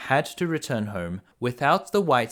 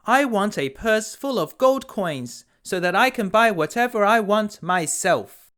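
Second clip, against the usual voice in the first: greedy daughter; 8 semitones higher, 4 dB louder than usual. A narrator's reading. Second daughter demanding gold from father, high and greedy. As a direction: stretch out a greedy wish, high and pushy. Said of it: "the second daughter said".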